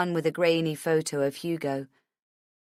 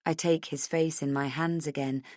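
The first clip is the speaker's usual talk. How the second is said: ordinary delivery, nothing marked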